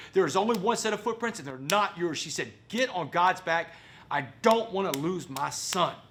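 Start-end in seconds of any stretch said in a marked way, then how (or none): 0.1-2.2 high, forceful mock coach yell; screaming like coach. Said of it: "screaming like a football coach". 2.7-6.0 slow, raised imitation of a pleading order; screaming like coach. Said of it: "screaming like a football coach".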